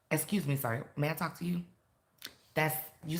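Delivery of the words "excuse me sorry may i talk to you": soft, polite approach; not aggressive. Shown as a demonstration. Teacher showing how you approach someone, non-aggressive. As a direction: ask gently, keeping the volume down. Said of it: "energy that's not aggressive".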